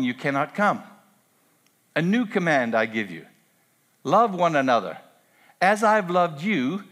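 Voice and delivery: measured, weighty reading of Jesus' words; scripture reading. Acted. Pastor reading John thirteen aloud, solemn reading.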